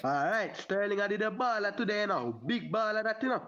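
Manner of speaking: a Jamaican accent put on at request; casual Jamaican lilt for the listeners. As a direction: say it in Jamaican patois style. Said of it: "say it in a Jamaican accent".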